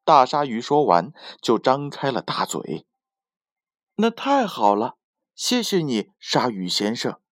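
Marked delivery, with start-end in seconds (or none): 4.0-7.2 delighted. Acted. Seahorse thanks shark happily.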